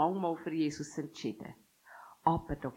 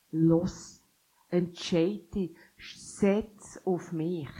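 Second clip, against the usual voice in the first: louder, pressing call, slowing at the end; urgent call; 2 semitones higher, 5 dB louder, much slower than usual. Acted. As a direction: push them to decide now. Jesus drängt zur Entscheidung. (lauter, drängender Ruf, zum Schluss langsam)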